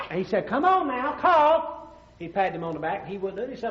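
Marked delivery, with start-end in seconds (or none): 0.5-1.7 insistent doctor. Acted. Doctor demanding a cough.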